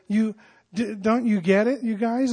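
don't you get it, incredulous; puzzled Paul. Shown as a demonstration. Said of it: "And he says".

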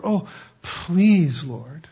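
drawn-out plea, sinking away; mock begging. Man begging the Lord, mock pleading. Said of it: "you don't have to beg the Lord".

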